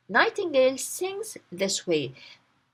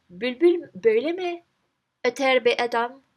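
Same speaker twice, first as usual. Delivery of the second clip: angry; 2 semitones higher, 4 dB louder than usual. Acted. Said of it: "diye bağırınca".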